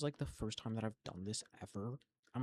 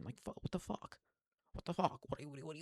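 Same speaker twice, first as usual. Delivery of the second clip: furious disbelief; 5 semitones higher, faster than usual. Real, not acted. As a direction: spit it out in disbelief. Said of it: "venting disbelief".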